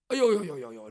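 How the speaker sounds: loud, rattled-off aiyo of dismay. Acted. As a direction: let the aiyo tumble out in alarm. Character's loud dismayed exclamation.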